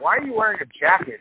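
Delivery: mock outraged question; incredulous yell. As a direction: shout it at the jacket guy. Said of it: "and you're like".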